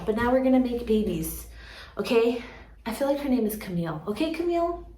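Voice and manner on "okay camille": light, higher-pitched pep talk to a plant; playful reassurance. Pretend. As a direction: coax it gently, lifting the pitch as you reassure. Reassuring her plant before cutting it.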